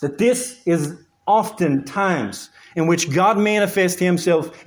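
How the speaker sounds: measured, emphatic sermon phrasing; emphatic preaching. Acted. Preacher telling the congregation suffering brings productive times, emphatic preaching. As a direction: preach it with weight on each phrase.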